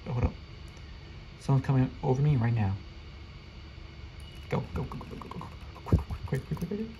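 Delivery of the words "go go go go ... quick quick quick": urgent whisper. Real, not acted. Urgent sneaking in game.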